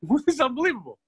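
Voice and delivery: can't believe his luck, laughing; laughing disbelief. Retold or imitated. King amazed, laughing.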